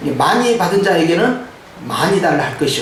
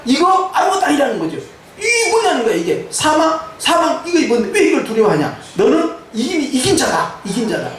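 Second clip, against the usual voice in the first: animated, emphatic sermon delivery; preaching; 5 semitones higher than usual. Real, not acted. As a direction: drive the victory home to the congregation. Preaches victory to congregation.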